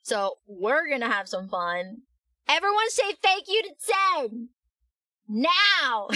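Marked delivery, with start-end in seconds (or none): 2.5-6.1 bright, high call to the chat; rally everyone to cheer; excited. Real, not acted. Rallying chat to thank donor.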